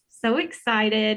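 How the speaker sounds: slow, stretched gush of excitement; slow excited gush; drawn-out excitement. Real, not acted. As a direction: savour each word, thrilled. Gushing opener to the shopping trip.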